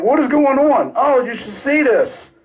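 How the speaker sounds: high-pitched retelling of mom's outcry; mock screaming. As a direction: voice mom exclaiming, high but not really shouting. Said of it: "just screaming, like".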